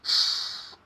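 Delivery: sh as a long voiceless hush; soft CH sound. Shown as a demonstration. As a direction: hold sh alone, with no vowel. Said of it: "the C H is pronounced as".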